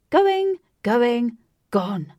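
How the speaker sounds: loud auctioneer call. Acted. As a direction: bang the gavel on it. Auctioneer closing the sale.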